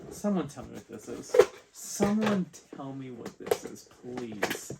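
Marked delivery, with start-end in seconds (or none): 1.8-4.7 insistent plea. Real, not acted. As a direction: plead for an answer, pitched up, then drop on please. Repeats question, pleading in disbelief.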